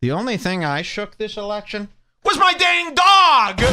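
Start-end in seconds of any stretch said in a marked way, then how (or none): 2.2-3.6 high, hammed-up holler; exaggerated comic shouting; mock shout. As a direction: yell the punchline up high. Shouted punchline in put-on voice.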